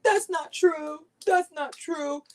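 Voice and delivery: a hint of feeble Biden; lightly voiced weak defence; mock Biden. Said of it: "Biden would be like".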